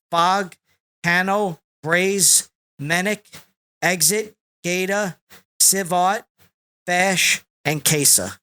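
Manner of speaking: breathless after a long list; running out of air; out of breath. Real, not acted. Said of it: "Now I'm out of breath".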